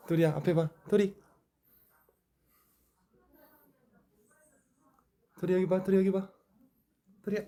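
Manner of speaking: high, loud coaxing of the dog; talking to a dog. Real, not acted. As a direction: call the dog to look here. Getting the dog to face camera.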